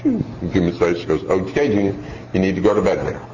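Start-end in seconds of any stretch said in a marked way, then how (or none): 1.2-3.2 calm, low-key bedtime order; unruffled parent, slightly lowered pitch; calm mother. Acted. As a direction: tell the child once, evenly. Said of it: "calm voice".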